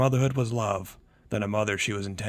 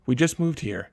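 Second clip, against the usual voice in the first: panicked; 5 semitones higher, 5 dB louder than usual. A narrator's reading. Panicked mother on phone.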